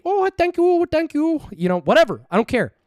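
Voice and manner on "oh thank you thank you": very high mock Asian lady accent; a squeaky put-on Asian woman saying thanks; Asian lady impression. Streamer shows voices he'd do, high mock Asian lady accent. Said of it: "Asian lady".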